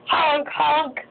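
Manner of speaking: playful honking noise; elephant honk. Shown as a demonstration. Parent showing baby the elephant sound, playful honk. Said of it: "That's what that elephant does".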